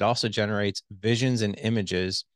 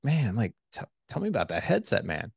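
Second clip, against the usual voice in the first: enthusiastic tone. Shown as a demonstration. Host asking his guest about the headset, upbeat and curious. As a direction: sound genuinely curious. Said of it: "when I use that voice tone".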